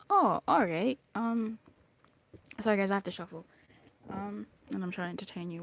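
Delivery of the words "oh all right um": lightly voiced God, loud swooping reply; a hint of knowing mock agreement; God playing along. God answering reader's soulmate request, lightly acted agreement. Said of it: "And then he goes".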